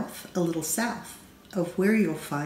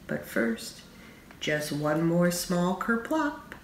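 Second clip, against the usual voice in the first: plotting one more drop; sly whisper; 8 dB quieter, slower than usual. A narrator's reading. A mischievous toddler whispering his plan to the reader.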